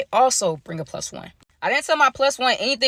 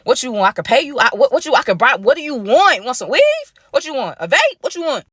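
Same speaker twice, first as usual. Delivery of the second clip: frantic bribing; 4 semitones higher, 4 dB louder than usual. Retold or imitated. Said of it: "I'm just looking like".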